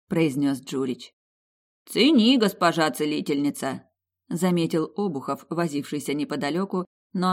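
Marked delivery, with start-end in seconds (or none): 1.9-3.8 teasing. Acted. Teasing remark.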